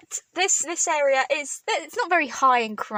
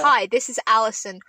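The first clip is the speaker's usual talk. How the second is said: louder mock self-introduction; imitating Allison; 5 dB louder than usual. Friend introducing himself as Allison, light impression. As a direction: announce yourself lightly as someone else. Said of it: "that was such a good impression".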